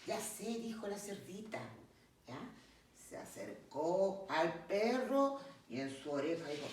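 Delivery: narración pausada y expresiva de cuento; cuento infantil. Acted. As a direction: cuenta el cuento a los pequeños, animando las frases. (narración de cuento para niños)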